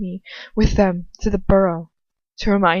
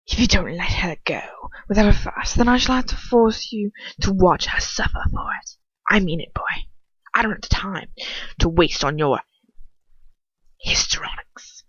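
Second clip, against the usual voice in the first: cold, hushed villain threat, half-whispered; a hushed, menacing aristocrat's threat; menacing Lucius. Acted.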